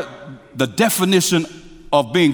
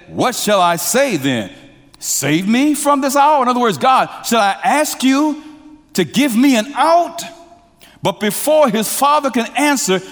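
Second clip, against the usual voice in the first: much higher and louder, impassioned; full-force preaching; 10 semitones higher, 3 dB louder than usual. Acted. Preacher voicing Jesus' plea to congregation, impassioned. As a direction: lift the plea to a preaching peak.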